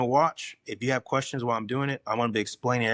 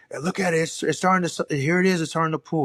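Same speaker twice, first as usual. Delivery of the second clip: high, excited, hollering yell; 5 semitones higher, 4 dB louder than usual. Retelling how he yelled to trainees over the running pump: retelling his own yell. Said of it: "so I'm yelling at these poor guys".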